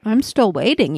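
talking through a crunchy bite; crunching chocolate mid-sentence; crunching while talking. Real, not acted. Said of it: "You can hear me crunching".

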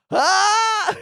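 very high loud cry; badass battle cry. Shown as a demonstration. Player retrying the battle cry, very high and loud. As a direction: scream like a tiny hero. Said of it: "the badass battle cry".

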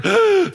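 sharp mock gasp of a crowd, high; collective gasp. Preacher voicing the servants' gasp, a high mock gasp. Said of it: "you can hear the collective".

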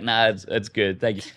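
relaxed, easygoing brush-off; light, unbothered no-thanks; casual refusal. Acted. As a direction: wave it off casually with a smile. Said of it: "just remain casual and be like".

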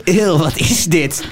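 slow, drawn-out mock bafflement; retold puzzled disgust. Housemate puzzled by beetroot, mock slow bafflement. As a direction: imitate a baffled housemate, stretching it out. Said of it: "En toen".

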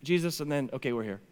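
offhand mumbled wrap-up, deflating as it goes; imitating a casual, underwhelming ending; anticlimactic retelling. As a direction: trail off like a mock afterthought. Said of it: "He goes".

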